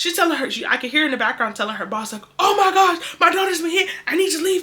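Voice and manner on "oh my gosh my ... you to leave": very high, loud, frantic panic. Retelling mom telling her boss about the accident: imitating mom panicking. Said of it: "My mom on the phone freaking out".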